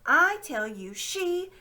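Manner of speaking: loud, high, cut off mid-word; indignant. Acted. Fat man starts accusing, interrupted. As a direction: splutter then get cut off.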